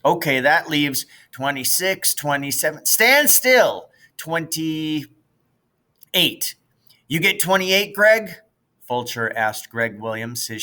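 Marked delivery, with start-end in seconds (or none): 0.0-8.4 put-on bossy big kid. Fulcher counting runners.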